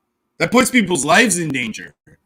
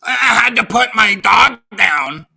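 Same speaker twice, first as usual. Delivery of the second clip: mock sob story; 2 semitones higher, 5 dB louder than usual. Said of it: "He's too busy".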